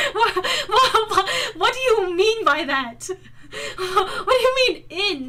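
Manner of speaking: laughing through the question; cracking up while asking. Real, not acted.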